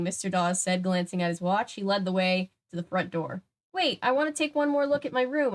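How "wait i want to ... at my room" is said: excited. A narrator's reading. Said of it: "I told them excitedly".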